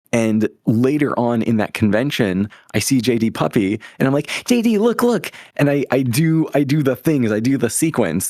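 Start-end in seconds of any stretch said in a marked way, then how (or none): 4.5-5.3 excited call. Retold or imitated. Calling out to J D.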